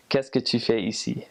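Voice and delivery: careful standard French of France. Shown as a demonstration. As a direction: say it in proper Parisian-style French. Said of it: "in France, for example, you would say".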